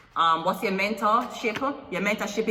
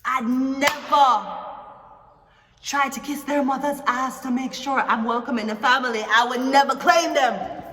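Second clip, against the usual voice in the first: defiant declaration; 3 semitones higher, 3 dB louder than usual. Pretend. Persona swears to fans he'd never claim them, building to a shout. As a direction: slam the point home, ending in a shout.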